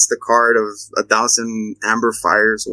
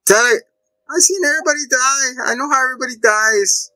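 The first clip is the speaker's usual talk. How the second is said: lightly voiced Bev; 11 semitones higher than usual.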